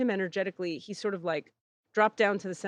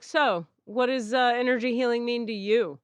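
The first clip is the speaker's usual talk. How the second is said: standoffish and judgy; 3 semitones higher than usual. Retold or imitated. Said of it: "real standoffish and judgy".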